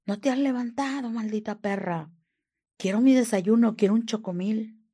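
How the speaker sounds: retold yelling. Abuser calling from his room for breakfast, retold yelling. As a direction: imitate someone yelling orders from the bedroom. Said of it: "Y oigo los gritos".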